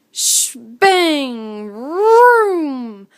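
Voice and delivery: engine vroom. A narrator's reading. Narrator revs the brothers' trail bikes arriving. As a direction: rev it like a trail bike. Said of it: "drove up on their trail bikes".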